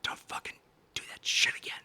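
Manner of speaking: hushed, whispered threat retold as good manners; polite warning. Telling his brother not to do that again, in a politely whispered warning. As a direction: whisper a restrained warning, barely voiced. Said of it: "I say to him politely".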